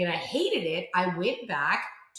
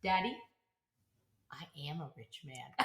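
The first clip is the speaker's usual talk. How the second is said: repeated punchline; 5 semitones lower, 13 dB quieter than usual. Retold or imitated. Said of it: "repeats the punchline".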